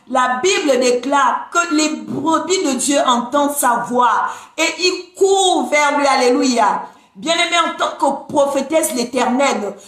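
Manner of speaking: rising sermon fervour, building; preaching. Acted. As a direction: preach with rising conviction to the flock. Preaching to followers on live.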